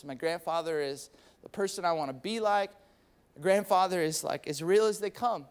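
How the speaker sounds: low, halting, heartfelt retelling; tearful, held back. Retold or imitated. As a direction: imitate someone tearing up while confiding. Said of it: "he's tearing up".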